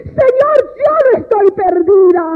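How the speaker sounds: high-pitched opening plea, easing down; retold cry to the Lord. Woman alone in the office calls to the Lord, retold outcry. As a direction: reenact calling out to God. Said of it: "yo más gritaba y yo llamaba al Señor".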